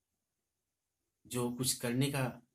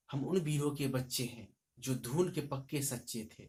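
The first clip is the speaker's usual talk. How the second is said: a touch of declamation; brief heroic recital; recited line. Shown as a demonstration. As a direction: quote the verse proudly. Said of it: "तो".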